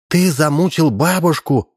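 slow, horrified gasp; aghast, high and slow; gasping in horror. A narrator's reading. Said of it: "ахнула Карина".

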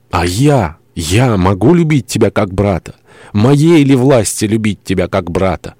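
rising, incredulous protest; impassioned outcry. Acted. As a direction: protest with growing anguish, drawing out the end. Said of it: "вскричала она".

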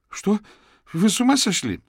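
high, loud disbelief; outraged shout. Acted. Accused suspect yells at the detective in disbelief. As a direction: shout back in shock.

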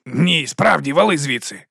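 loud firm repeat; mean it this time; insistent order. Acted. Boss insists guard leave.

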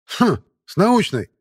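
slow, loud, high scoff. Acted. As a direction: scoff at the word. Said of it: "хмыкнул Шипко".

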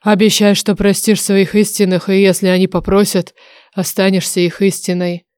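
lightly voiced oracle, firm and measured; a hint of a solemn dragon; demanding dragon oracle. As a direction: exact a promise.

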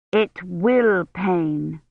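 plain reading voice

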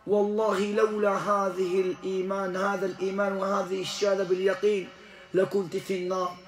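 rapid low aside. Real, not acted. Preacher quietly commenting to the crowd, rapid. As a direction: rattle it off under the breath.

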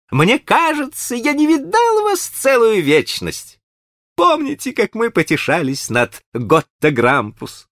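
high, bright eager host voice; cheerful high gentleman. A narrator's reading. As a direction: gush over an old friend, high. Green chatters on.

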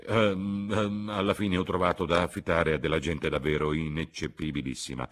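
a poor imitation of Sir Harry; a hint of a stuffy old gentleman; mediocre Sir Harry impression. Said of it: "Freddy era un imitatore mediocre".

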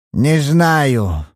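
put-on a lightly piercing old man's answer; shrill old man's voice. Old father answering the detective, lightly shrill. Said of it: "пронзительным старческим голосом".

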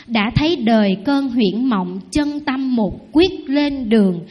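slow, measured poem reading; poem recitation. Acted. Nun reciting the Zen master's poem to the congregation, slow. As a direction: recite it slowly like verse. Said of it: "thầy có một cái giọng đọc thơ rất là hay".

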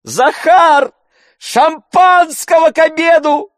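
very high, loud call to the servant; shouting. A narrator's reading. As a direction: bellow for Zakhar across the house. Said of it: "закричал он".

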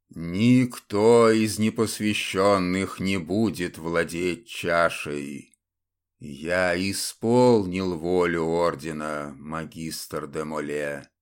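low, slow, hoarse dead knight's voice; hoarse curse of a templar. Acted. Undead templar croaks his triumph over the fallen Saburov, low and slow. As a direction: rasp it out like a curse over the battlefield. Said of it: "словно проклятие прохрипел".

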